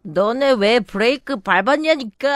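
put-on slow drunken slur; slurred drunk speech. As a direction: drag the words like a drunk. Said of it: "영어로 혀꼬부라진 말투로". (혀 꼬부라진 말투)

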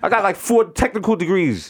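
indignant mock Indian accent; boastful Indian agent. Overqualified agent to caller, boastful Indian accent. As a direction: brag in a put-on Indian accent.

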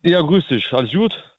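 thin telephone line sound; over the phone. Real, not acted. Anrufer in Radiosendung zugeschaltet. (wie am Telefon)

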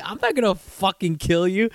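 laughing disbelief; laughing dad quote. Retold or imitated. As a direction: blurt it out while cracking up.

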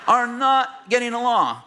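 high plaintive complaint, half laughing; friend's retelling. Retold or imitated. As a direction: whine it out, a bit put-upon. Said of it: "And my friend goes".

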